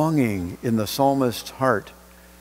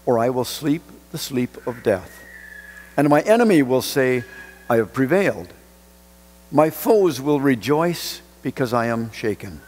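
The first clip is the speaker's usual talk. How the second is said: scripture reading. Acted. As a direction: read the psalm with weight. Reads the psalm aloud.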